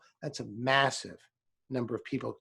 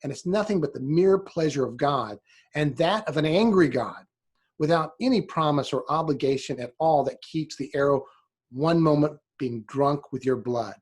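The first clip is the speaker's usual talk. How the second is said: quoting a sermon; 3 dB louder than usual. Retold or imitated. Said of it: "And I'm gonna quote here".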